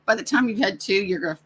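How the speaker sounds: bad Chicago accent impression; a weak stab at a Chicago accent. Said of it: "Worst Chicago accent impersonation ever".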